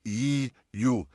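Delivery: ई, यू said thin and drawn out; thin ye sounds. Shown as a demonstration. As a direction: keep ई, यू fine and stretched. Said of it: "बिल्कुल बारीक है". (बारीक खिंचा हुआ उच्चारण)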